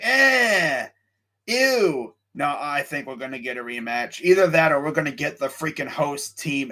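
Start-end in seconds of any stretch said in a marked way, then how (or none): 0.0-2.1 mock disgust. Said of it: "people are gonna be like".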